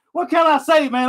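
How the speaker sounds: laughs through the words; laughing. Real, not acted. Fan on live stream laughing off the loss, laughing. Laughing at own trash talk.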